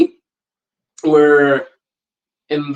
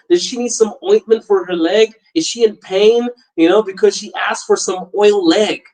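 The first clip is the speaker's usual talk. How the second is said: worried phone call; 5 semitones higher than usual. Retold or imitated. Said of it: "I'm like".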